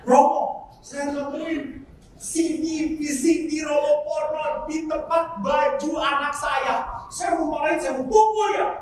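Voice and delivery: tiruan ibu mengadu, lambat dan ditekan; ibu marah-marah. Retold or imitated. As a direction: tirukan ibu yang menahan marah saat mengadu. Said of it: "seorang ibu marah-marah". (ibu marah yang mengadu kepada romo)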